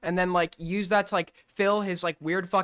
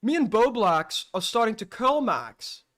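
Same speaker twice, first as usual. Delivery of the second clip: imitating an Australian, pitched up; a put-on Australian voice quoting a friend; Australian accent; 3 semitones higher, slower than usual. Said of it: "I'm doing an Australian accent".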